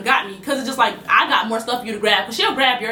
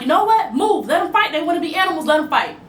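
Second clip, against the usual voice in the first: higher-pitched, exasperated retold command; fed-up manager; 5 semitones higher than usual. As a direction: act out a manager giving up on breaking up a fight. Retold fed-up house manager giving up.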